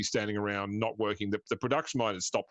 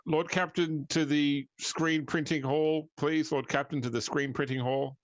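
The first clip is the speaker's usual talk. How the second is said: ship intercom announcement, slow and raised; bosun over the Vox; 5 semitones higher than usual. Acted. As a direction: call it out over a tannoy. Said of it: "you hear the bosun's voice over the Vox".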